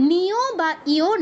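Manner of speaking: নিয় and ইয় as 'ni-yo', 'i-yo'; Bengali-style counterexamples নিয়, ইয়; wrong Bengali reading. Shown as a demonstration. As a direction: say নিয়, ইয় with extra vowel and rounded o, to reject it. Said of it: "নয়".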